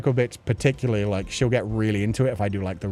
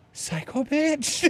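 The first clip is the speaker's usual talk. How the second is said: much higher, slow, put-on voice; mock cat insult; much slower than usual. Owner voicing her glaring cat, mock offended. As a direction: drag it out in a silly high voice.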